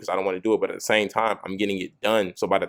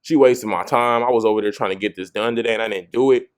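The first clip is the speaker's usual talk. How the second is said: louder, frustrated complaining; mad rant; 6 dB louder than usual. Retold or imitated. A guy fed up after running mom's errand, mildly mad rant. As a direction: vent like you lost the whole day. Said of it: "You're mad because you're like".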